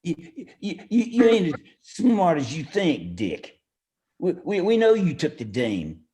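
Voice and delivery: tripping over every first word; a nervous tough guy who can't get a word out cleanly; stuttering thug with a touch of bluster; stammering henchman. Acted. Nervous henchman confronts the detective.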